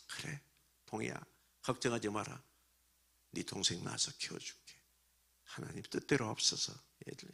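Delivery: put-on calm the boy down softly; tender reassurance. Father comforts his crying son, soft and reassuring.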